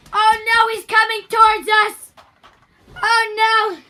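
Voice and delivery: mock panic. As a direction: play the panicked reporter.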